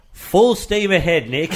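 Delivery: high, drawn-out gung-ho reply; retold enthusiasm. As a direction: imitate an eager organiser, stretching it out high. Quoting the man's eager reply.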